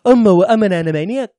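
lightly put-on mock Liverpool voice; a hint of drawling British caricature; impression of a musician. Host carrying on his improved impression of a musician, lightly voiced impression. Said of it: "That's a little bit better".

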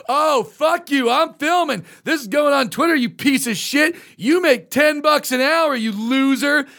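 high, drawn-out mock outrage; obnoxious customer. Customer filming the employee who asked him out, indignant. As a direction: hurl the insults slowly with indignant scorn.

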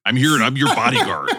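lightly voiced wrestler as bodyguard; a hint of wrestling promo, punching the last words; Hulk Hogan. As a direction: play a wrestler declaring devotion. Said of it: "you and Hulk Hogan".

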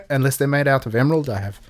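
jokey put-on South African accent; lightly done South African accent. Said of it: "Both of us good dog shit accents".

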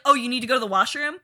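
hammed-up dad outraged by a bathroom request; mock outraged berating. Acting Jack berating kid in car.

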